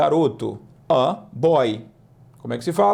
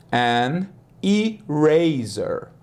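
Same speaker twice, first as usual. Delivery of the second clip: English an eraser; much slower than usual. Shown as a demonstration. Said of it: "slow teaching repetition".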